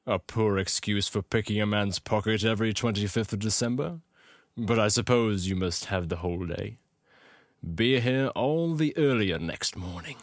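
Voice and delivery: put-on British accent for an indignant line. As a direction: play it as a British character. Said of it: "I could do a British accent".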